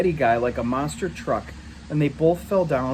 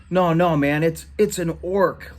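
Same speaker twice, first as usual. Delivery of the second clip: laughing taunt; 4 semitones higher, 3 dB louder, slower than usual. Acted. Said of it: "laughed Eddie".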